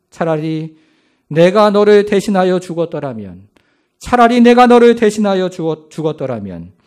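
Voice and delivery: grieving father wishing to die instead; anguished cry. Acted. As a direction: plead to die in his place, cracking at the end. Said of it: "이렇게 말씀하십니다".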